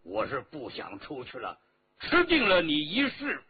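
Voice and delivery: stubborn captive with emphatic swells; defiant prisoner. Acted. Captive refuses to yield to the emperor, defiant. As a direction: throw it defiantly at your captor, punching key words.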